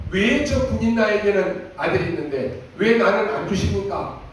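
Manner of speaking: complaining prayer with a laugh in it; half-laughing imitation of a sulky grievance; Hannah's bitter prayer, lightly acted; mock angry prayer. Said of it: "그때는 막 화를 내면서".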